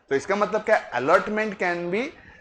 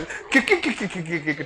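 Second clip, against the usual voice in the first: giggling. Real, not acted. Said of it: "देख, हंस रही".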